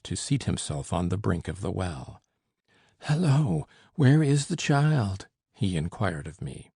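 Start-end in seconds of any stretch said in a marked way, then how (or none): 3.0-5.3 eager call. A narrator's reading. Breathless uncle calls out.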